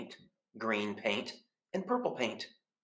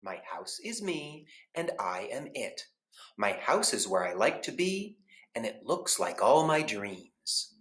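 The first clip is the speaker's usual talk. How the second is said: calm reply. Acted. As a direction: answer dreamily and serenely. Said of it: "Mister Plumbean said".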